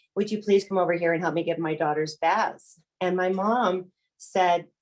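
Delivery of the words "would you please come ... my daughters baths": begging between sobs, tearful and crying. Retelling a phone call asking mom to come over: retelling own crying plea. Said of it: "And I'm crying and I'm carrying on".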